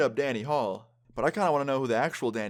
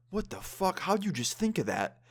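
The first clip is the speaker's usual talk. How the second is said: much higher-pitched retold disbelief; imitated amazement; 9 semitones higher than usual. Friend asks narrator about his quick lie, imitated amazement. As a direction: marvel as the astonished friend, imitated.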